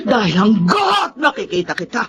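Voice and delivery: tearful anger. Acted. Mother drives woman from wake.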